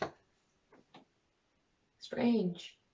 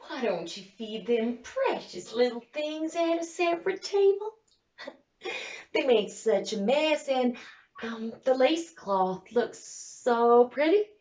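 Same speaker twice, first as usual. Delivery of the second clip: sugary request; 3 semitones higher than usual. Retold or imitated. Acts out her polite request to sister-in-law.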